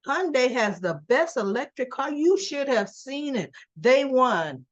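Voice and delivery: mock gushing. The speaker telling Robert about the car show, mock gushing. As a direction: imitate someone raving, leaning on the big words.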